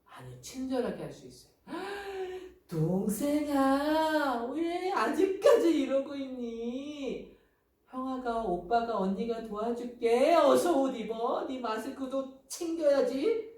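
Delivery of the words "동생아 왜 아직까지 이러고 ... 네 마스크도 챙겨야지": high, slow, coaxing singsong; acted patient kindness to a little one; kind older sibling. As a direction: coax gently in a drawn-out, raised voice. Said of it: "이렇게 친절하게 도와주는 거예요".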